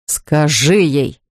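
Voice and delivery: low, slow barked command; barked order. Acted. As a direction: bark the order at her. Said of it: "рявкнул Лоуренс".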